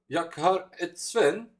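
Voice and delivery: high, slow lilting Swedish imitation; singsong Swedish. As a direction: mimic the Swedish sing in the voice. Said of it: "Swedish sing a bit more when they speak".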